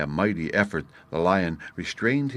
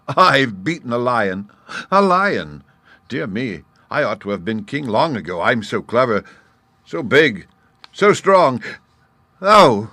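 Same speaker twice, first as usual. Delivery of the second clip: louder, higher gleeful boasting; boasting gnat; 5 semitones higher, 7 dB louder than usual. A narrator's reading. Gnat bragging after beating the lion, excited. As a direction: crow about the victory.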